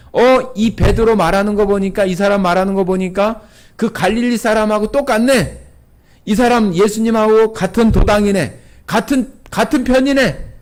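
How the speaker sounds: lightly voiced accusers pointing at Peter; accusing. Bystanders accusing Peter of being Galilean, mild. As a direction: catch him out by his accent. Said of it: "막 베드로를 막 ... 고발하는".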